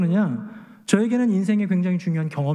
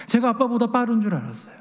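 usual speaking voice

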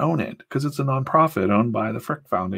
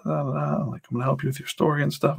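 breezy editor; 6 semitones higher than usual. Retold or imitated. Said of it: "And she goes".

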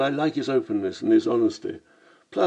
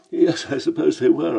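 Cockney hamming up a posh Oxford "Yes"; mock Oxford accent; 6 semitones higher, 5 dB louder than usual. Lamb mocking the narrator's posh voice, in Oxford accent. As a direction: stretch "Yes" long in a plummy Oxford voice. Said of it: "Lamb mimicking an Oxford accent".

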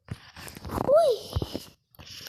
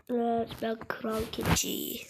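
whispering; 6 semitones lower, 5 dB quieter, slower than usual. Pretend. Mock regal whisper.

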